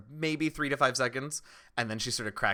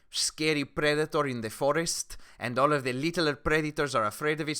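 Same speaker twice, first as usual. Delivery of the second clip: louder, emphatic explanation in character; instructive townswoman; 4 semitones higher, 6 dB louder than usual. Acted. Townswoman explains Shade as big predator, emphatically. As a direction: spell it out with a vivid comparison. Game master plays townswoman.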